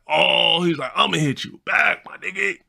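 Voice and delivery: high, stunned homie impression; friend's voice. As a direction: cut the call short in his high voice. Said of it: "Yeah, that's how he talked".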